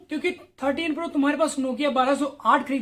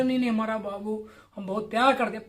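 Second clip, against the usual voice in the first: lower, mocking a clingy lovesick kid; mock lovesick whine; 4 semitones lower, 3 dB quieter than usual. Mocking a heartbroken viewer begging to keep the partner, mock whine. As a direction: plead for the babu in a mock whimper. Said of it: "पागलों वाली हरकतें करने लगे".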